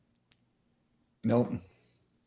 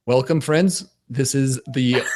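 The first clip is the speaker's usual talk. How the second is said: put-on old catchphrase intro. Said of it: "You went back to the Friends?".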